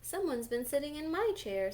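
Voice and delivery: lightly voiced mama bear; just a hint of mama bear; middle-sized voice. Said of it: "in her middle-sized voice".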